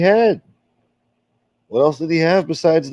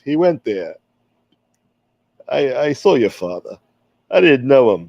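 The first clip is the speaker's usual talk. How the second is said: put-on wise guy accent. Old gangster defending his name to the stream, lightly voiced. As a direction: play the smooth-talking tough guy, lightly. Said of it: "I used to do this accent a lot better".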